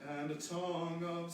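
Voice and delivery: tongue of with a buzzing V on of; shadow vowel diction. Shown as a demonstration. Director modelling diction of tongue of. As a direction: land the V of of. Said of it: "a V sound for of".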